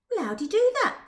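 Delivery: put-on eager, hungry girl asking; the speaker's girl voice.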